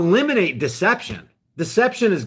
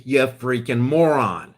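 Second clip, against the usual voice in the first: mock insult in Franklin quote; 6 semitones lower, slower than usual. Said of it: "Benjamin Franklin talked like that".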